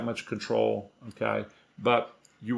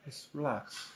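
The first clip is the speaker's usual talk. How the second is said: calming; 15 dB quieter than usual. Real, not acted. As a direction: soothe the excited dog gently. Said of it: "the tone of my voice came down".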